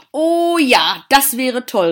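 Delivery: high, loud burst of delight; enthusiastic. A narrator's reading. Girl thrilled by the gardener's promise, enthusiastic cry. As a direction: cheer it with a long drawn-out "Oh". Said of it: "rief Celia begeistert".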